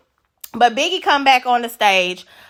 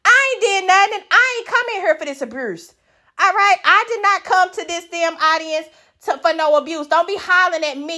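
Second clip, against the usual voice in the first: higher, put-on offended voice; indignant audience member; 7 semitones higher than usual. Pretend audience member protesting being yelled at, indignant. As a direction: complain you came for no abuse. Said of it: "if I'm in the audience".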